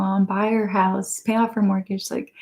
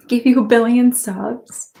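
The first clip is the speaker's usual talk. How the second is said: ordinary talk, nothing marked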